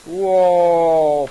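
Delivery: sudden loud surprised yell; startled shout. Real, not acted. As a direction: blurt it out, caught off guard. Sudden scare while playing game.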